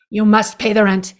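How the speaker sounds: hint of a sneering landlord demanding rent; sneering panto villain. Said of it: "this is the world's shortest play".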